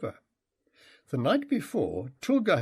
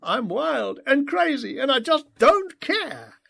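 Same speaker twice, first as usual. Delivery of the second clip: high, loud mock devil-boy voice; father joking in his son's devil-boy voice; imitating devil boy voice; 12 semitones higher, 4 dB louder than usual. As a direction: joke in a silly demon-kid voice. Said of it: "imitating his devil boy voice".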